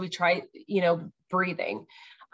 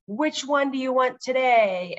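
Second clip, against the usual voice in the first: bright question; 6 semitones higher, 3 dB louder than usual. Retold or imitated. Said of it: "So I'll say".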